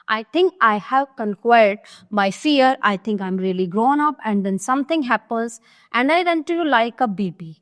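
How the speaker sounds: slow, deliberate reading of a stage script; slow classroom reading of a play; play read aloud. Acted. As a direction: read each line out slowly for the class. Reads Anne's confession.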